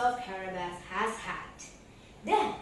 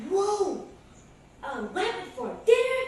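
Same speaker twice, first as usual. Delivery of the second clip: surprised; 8 semitones higher, 6 dB louder than usual. Acted. Master delighted by rabbit.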